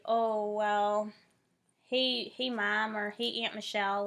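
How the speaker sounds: light Cleveland accent greeting relatives. Shown as a demonstration. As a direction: greet family with a touch of Cleveland vowels. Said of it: "use their accent".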